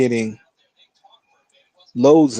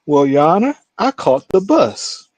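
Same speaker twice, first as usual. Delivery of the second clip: higher, slower put-on voice of an old man; imitating old defendant; 4 semitones higher, 4 dB louder, slower than usual. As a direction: play the innocent old man. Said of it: "he says".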